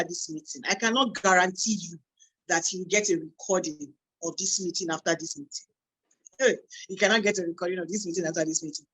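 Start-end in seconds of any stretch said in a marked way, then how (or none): 6.4-8.9 fast, insistent repeat of the warning; firm warning. Real, not acted. Host warning attendees there is no recording, insistent. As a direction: rattle it off so nobody misses it.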